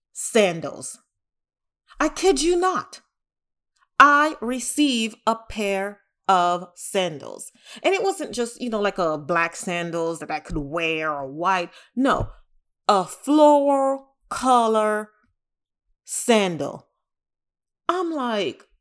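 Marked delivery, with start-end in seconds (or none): 4.0-7.5 slow, stretched, louder disbelief; slow emphatic reveal. Real, not acted. Telling viewers what arrived, slow emphatic disbelief. 12.9-15.1 slow, loud, higher mock disgust; disgusted emphasis. Real, not acted. Describing the ugly sandals to viewers, slow loud disgust.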